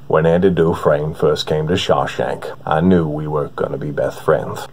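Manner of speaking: unhurried, soothing storyteller read; Morgan Freeman impression. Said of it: "one of my favorites to always mess around with is Morgan Freeman".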